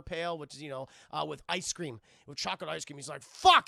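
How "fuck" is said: high, sudden shouted curse; pissed-off outburst. Acted. Streamer acts out pranked custodian, pissed-off shout. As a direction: explode on the curse. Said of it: "he's just pissed off".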